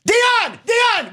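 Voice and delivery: loud, high call across the room. Acted. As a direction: shout the name to someone far off. Calling out to someone offstage.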